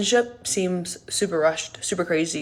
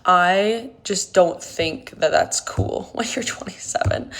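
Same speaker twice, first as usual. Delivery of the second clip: laughing whisper. Real, not acted. Sheepish remark with laugh.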